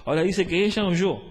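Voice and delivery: loud, punchy sermon delivery; emphatic preaching. Real, not acted. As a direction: drive the teaching home to the congregation. Preaches with raised voice.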